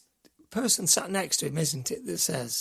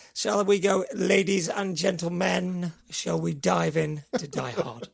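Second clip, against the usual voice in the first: attempted South African accent, drawn-out. Shown as a demonstration. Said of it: "I'll try and do this in my best one".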